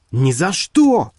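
terrified. A narrator's reading. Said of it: "крикнул в ужасе Титус".

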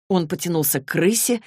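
ordinary delivery

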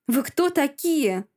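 slow, high alarmed shout; yelling. Acted. Masha yelling at the thugs entering her room, loud. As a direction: confront the intruders, loud and slow. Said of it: "ору на вошедших бугаёв".

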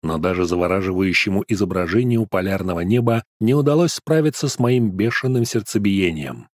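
plain reading voice

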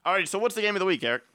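talking around a mouthful; mouth full. Real, not acted. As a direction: speak through a bite of chips. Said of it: "He said with his mouth full of food".

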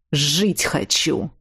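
low, slow gruff answer. A narrator's reading. Kidnapper answering the captive gruffly. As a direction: answer coldly and roughly. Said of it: "грубо ответил Виктор".

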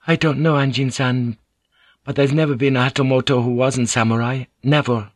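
lightly voiced earnest interpreter; Mariko, earnest. Mariko answers Blackthorn about samurai rank, lightly voiced and earnest.

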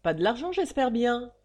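sharp, quick exclamation; alarmed father blurting out; exclaimed quickly. Acted. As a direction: cut her off at once. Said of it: "s'écria-t-il vivement".

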